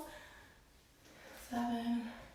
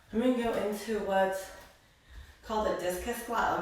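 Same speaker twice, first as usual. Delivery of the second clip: breathless from the workout; out of breath. Real, not acted. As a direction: talk while out of breath. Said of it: "I'm already out of breath".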